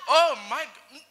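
high, loud delighted outburst; acted shared joy. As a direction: react as if thrilled for a friend. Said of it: "joy of sharing with somebody and they're like".

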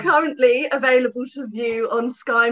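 slightly announcer-like, half laughing; news reporter voice. Real, not acted. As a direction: read it like a light news bulletin. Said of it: "Why am I talking like a news reporter?".

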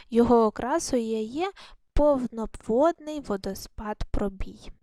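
measured, carefully enunciated read-aloud; reading to children. Shown as a demonstration. Teacher lets pupils listen to the text first, careful read-aloud. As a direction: read the passage out clearly for young pupils.

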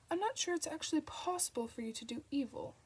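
dry mocking echo with a lift on "not"; sarcastic. A narrator's reading. Crawley mocks the angel's own words, sarcastic. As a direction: needle the angel with mock doubt. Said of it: "said Crawley sarcastically".

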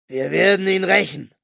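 solemn. A narrator's reading. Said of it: "feierlich zu ihr".

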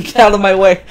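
mild mock yell. Police chief yelling in the street, mild mock yell.

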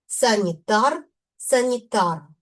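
санітар, санітара with stress on the "тар" syllable; stress on suffix. Shown as a demonstration. Teacher showing suffix stress to learners, stress on suffix. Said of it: "наголос падає на суфікс ар".

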